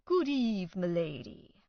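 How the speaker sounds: lightly hammed-up faux-medieval herald; a costumed gatekeeper playing gallant; mock courtly greeting. A narrator's reading. Gatekeeper bowing to Beth Ann, mock courtly greeting. LARPer greets her in role.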